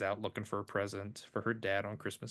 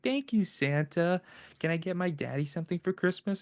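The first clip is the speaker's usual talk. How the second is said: put-on higher, quick little girl's thanks; a touch of a small girl, fast and a little louder; grateful little girl; 8 semitones higher, 4 dB louder than usual. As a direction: rush it out like an excited child. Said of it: "He's like".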